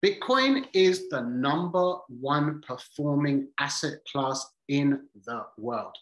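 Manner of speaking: very slow, deliberate, spaced out word by word. Speaker sharing a chart on screen with viewers, very slow and deliberate. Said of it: "I say it so slowly".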